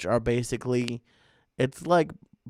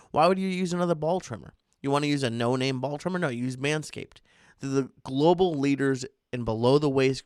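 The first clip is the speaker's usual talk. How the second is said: upbeat, salesy sponsor read; podcast ad read. Acted. Host selling the sponsor to listeners, punchy ad read. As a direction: pitch the product like a pro host.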